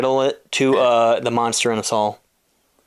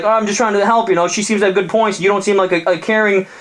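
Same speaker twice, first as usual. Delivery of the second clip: innocent monster; 6 semitones higher than usual. Acted. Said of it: "he's like".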